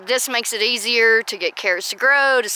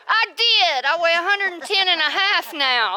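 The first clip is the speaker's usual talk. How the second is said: excited; 7 semitones higher than usual. Real, not acted. Proudly answers weight teasing.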